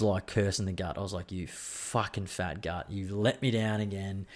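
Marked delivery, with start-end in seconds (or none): 1.3-4.3 slow, soft mock scolding; mock scolding the gut. Cursing his gut feeling twenty minutes in, slow quiet mock scold.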